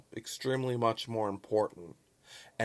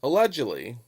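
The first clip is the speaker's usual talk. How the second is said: "Allegedly" set apart and pushed louder; emphatic allegedly; 2 semitones higher, 5 dB louder than usual. Real, not acted. Vlogger hedging a claim to viewers, emphatic allegedly. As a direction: stress "Allegedly" as a pointed standalone caveat. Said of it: "I emphasize the word allegedly".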